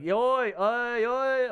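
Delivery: mock rowdy "oi" shouts; imitated rowdy heckling. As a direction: call out like a tipsy heckler. Imitates rowdy Aussie crowd heckling comics.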